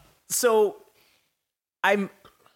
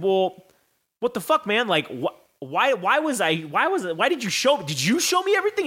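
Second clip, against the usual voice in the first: exasperated demand; 4 semitones higher than usual. Retold or imitated. Demanding answers from the wrestler, climbing higher. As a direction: pitch climbing much higher, question by question. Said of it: "And then I said".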